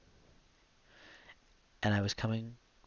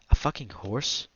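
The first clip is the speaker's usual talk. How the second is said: sudden louder disbelieving cry; incredulous yelp, louder; stunned outburst; 3 semitones higher, 6 dB louder, slower than usual. Retold or imitated. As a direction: blurt it out in shocked disbelief. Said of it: "you said in Vietnamese".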